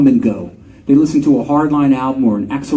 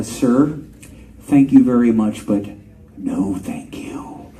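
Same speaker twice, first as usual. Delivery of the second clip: polite; 4 semitones lower, slower than usual. Retold or imitated. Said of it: "I kindly said".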